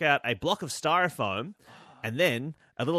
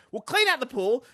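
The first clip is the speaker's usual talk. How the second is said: mock mum; 8 semitones higher than usual. Mum voiced.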